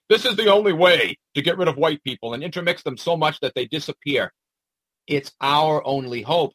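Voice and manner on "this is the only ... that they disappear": fast, sneering put-on voice of the chef; mock the speaker, rattle it off; mocking paraphrase. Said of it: "Who would talk like this?".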